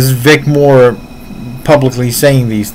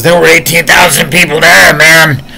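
higher-pitched, incredulous protest; indignant retelling; 5 semitones higher, 4 dB louder than usual. Retold or imitated. Retelling the interviewee's objection to the claim, indignant. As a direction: quote him protesting, pitched up and insistent. Acted retort of Chuck Sullivan.

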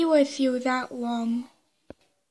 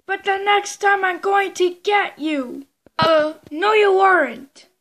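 playful bickering; 3 semitones higher, 4 dB louder than usual. Pretend. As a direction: bicker like two toys. Toy characters bicker.

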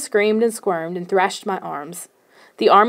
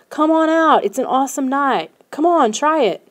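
excited coaxing; 6 semitones higher than usual. Acted. Jay coaxing his scared friend.

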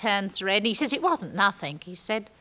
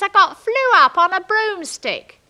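sarcastic call; 10 semitones higher, 9 dB louder than usual. Retold or imitated. Sarcastic shout down to Norm.

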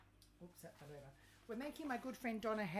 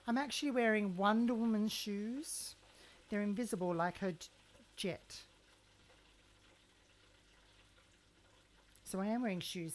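louder proud declaration; loud showy boast about invisible shoes; loud mock boast; 11 dB louder than usual. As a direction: proclaim it grandly to the camera.

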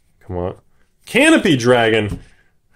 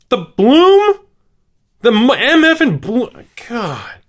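very high, loud incredulous question; can't believe this card came out; surprised; 6 dB louder, slower than usual. Real, not acted.

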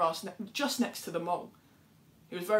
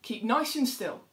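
buzzing flies; 4 semitones higher, slower than usual. Acted. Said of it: "buzzed the flies".

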